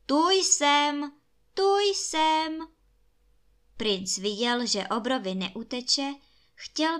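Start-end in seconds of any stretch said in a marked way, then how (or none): 0.0-2.7 high, held-out repeated call; persistent shouting. A narrator's reading. Ring betrays the prince to the giant, high insistent cry. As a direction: keep calling out high and insistently. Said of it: "A prsten pořád křičel".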